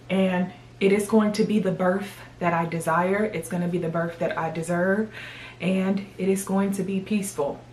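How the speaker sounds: gum in mouth; talking while chewing gum. Real, not acted. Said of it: "I have to have gum in my mouth these days".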